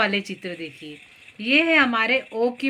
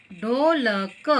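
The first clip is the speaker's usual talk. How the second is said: ढोलक drawn out as ढो, ल, क; ढो... ल... क, spaced out for learners; syllable by syllable; much slower than usual. Shown as a demonstration. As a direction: sound out ढोलक one syllable at a time. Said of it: "देखिए कैसे जोड़ते हैं".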